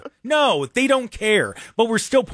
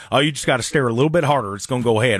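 mocking owner; 6 semitones lower, faster than usual.

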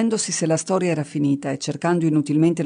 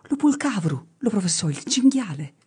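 high, eager near-shout in dialect; almost shouting; 4 semitones higher than usual. Acted. Shepherd almost shouting the right answer, high and eager. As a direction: burst out the answer with delight. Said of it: "quasi gridando gli rispose".

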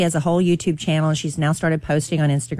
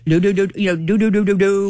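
imitating little noises. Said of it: "copied her little noises".

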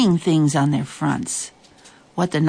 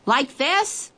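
curious creature voice; 9 semitones higher than usual. Acted. Nobble asks.

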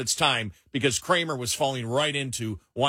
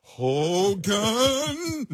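Schultz yell; 8 semitones higher than usual. Retold or imitated. Schultz and Klink bit.

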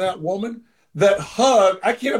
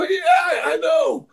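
much higher, whiny and cracking; much higher whiny cry to Roberto; slower than usual. Retold or imitated. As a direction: whine it like a man caught out. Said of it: "the male whiny voice".

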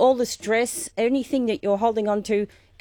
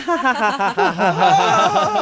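smiling laugh; 3 semitones higher, 4 dB louder, slower than usual. Shown as a demonstration. Teacher guiding willow-tree laughter with the hosts. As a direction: build from a smile into a big laugh. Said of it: "Smile, breathing up".

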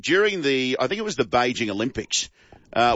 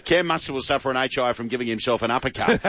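laughing. Real, not acted. Host cracks up reading text.

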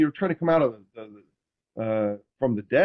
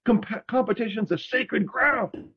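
higher, slow earnest teammate voice; quoting Ronnie; 9 semitones higher than usual. Retold or imitated. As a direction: lay it out like a sacred rule, pitch up. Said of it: "He goes".

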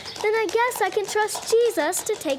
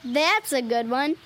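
tickled by a friend's joke; amused laughing; 4 semitones lower, slower than usual. Acted. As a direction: laugh into the echoed word, then settle lower.

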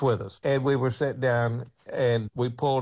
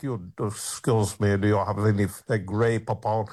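posh Rolls Royce man; 3 semitones lower than usual. Retold or imitated. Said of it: "they're talking like".

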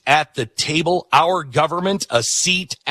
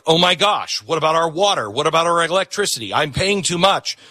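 mock worried citizen; 5 semitones higher than usual. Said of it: "you're gonna be like".

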